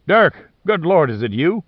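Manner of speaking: sudden high, loud cry of disbelief; shocked to hear a lost friend; stunned surprise. A narrator's reading. Hearing a friend presumed dead.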